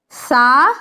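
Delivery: سا let out easily; relaxed ث. Shown as a demonstration. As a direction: let سا flow out on the air. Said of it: "آرام سے نکالنی ہے". (آرام سے نکلتی سا)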